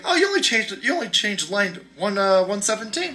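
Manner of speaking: high, breezy mock FDA official waving it through; lightly voiced rubber-stamp bureaucrat; mock regulator voice.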